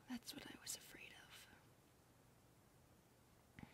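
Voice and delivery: soft hushed whisper. Acted. Maid telling the master about the old owners, whispered. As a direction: murmur it gently and sadly.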